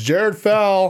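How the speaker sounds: high-pitched, booming, loud bellow. Retelling the daughter calling through the house: imitating someone bellowing. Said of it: "bellows it through the house".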